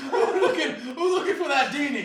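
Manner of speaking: high, loud hype call; monster truck ad. Pretend. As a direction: bellow it to the crowd. Hype-announcer bit.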